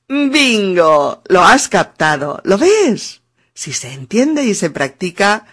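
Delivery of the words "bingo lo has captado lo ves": loud, high delighted cheer; excited praise. Real, not acted. Teacher cheering her French student's breakthrough. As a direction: celebrate the student's success.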